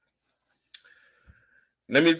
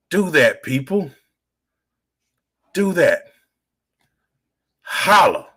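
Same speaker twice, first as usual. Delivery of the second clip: higher, punched call to the crowd; rallying call; 5 semitones higher, 4 dB louder than usual. Real, not acted. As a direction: call out each phrase with force, pausing between. Rallying viewers at sign-off.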